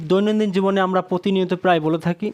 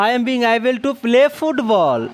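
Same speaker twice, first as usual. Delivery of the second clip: slow dictation; 2 semitones higher, much slower than usual. Shown as a demonstration. Teacher dictating the answer slowly.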